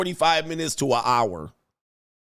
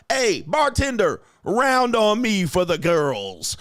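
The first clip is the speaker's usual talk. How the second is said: mock big-spender call; 6 semitones higher, slower than usual. Mocking the guy buying a round.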